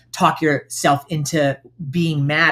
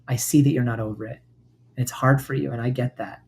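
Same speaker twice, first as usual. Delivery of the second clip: gentle soothing self-talk; 2 semitones lower than usual. Shown as a demonstration. Comforting inner part demo.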